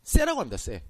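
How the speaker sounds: 쎄 said in place of 혀, with ss; 쎄 as Gyeongsang folks say it; Gyeongsang dialect word. Shown as a demonstration. Preacher showing how Gyeongsang folks say tongue, 쎄 pronounced. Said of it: "경상도에서는 혀라고 안 합니다".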